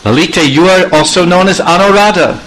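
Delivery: Krishna begs Lalita for entry, lightly voiced; pleading Krishna. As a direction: coax her to let him in. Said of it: "he's saying".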